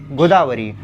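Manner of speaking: गोदावरी with a quick, short final ri; abrupt final री. Shown as a demonstration. Teacher demonstrating the misspelt reading, short final री in गोदावरी. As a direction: jerk off the री ending of गोदावरी. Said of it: "झटके से री को बोलना पड़ेगा".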